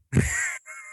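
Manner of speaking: quiet, breathy burst of laughter. Real, not acted. Guest cracking up after saying hello, laughing. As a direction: laugh helplessly before you can answer.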